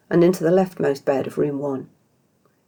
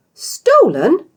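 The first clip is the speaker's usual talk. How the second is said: much higher, louder horrified gasp; gasping in horror; 13 semitones higher, 8 dB louder than usual. Acted. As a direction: gasp the word in shock. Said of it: "Isha gasped in horror".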